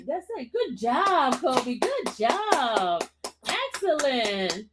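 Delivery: soft swooping praise; cooing good-dog voice; praising a pet. Real, not acted. Praising the dog after singing.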